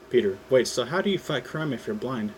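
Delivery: ordinary delivery, nothing marked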